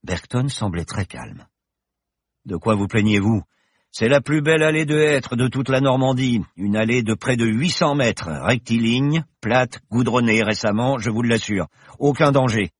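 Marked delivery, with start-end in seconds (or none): 2.5-12.7 high, bright-spirited professor voice, louder; the confident pilot professor, merry; cheerful professor. Acted. Professor reassures Paloma in the plane, jaunty and loud. Bergton calmly boasting.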